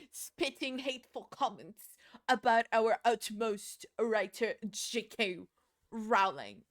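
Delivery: halting mock politician, punching out the words; badly faked British speech-maker; Rishi Sunak impression. Streamer imitating the prime minister defending a writer, mock-earnest. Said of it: "That's what Rishi Sunak speaks".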